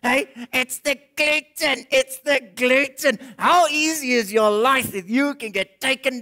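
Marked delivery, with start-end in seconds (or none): 0.0-3.2 whiny gluten complainer. Retold or imitated. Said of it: "these people who gluten intolerant".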